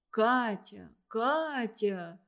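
uncle's confused, falling plea; bewildered uncle. A narrator's reading. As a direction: call her name, at a loss. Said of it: "растерянно сказал дядя".

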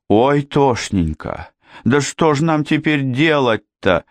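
high, stretched-out keening; lamenting wail. A narrator's reading. Janet at a loss over the wounded man, wailing. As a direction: wail helplessly, pitch well up. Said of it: "запричитала Джанет".

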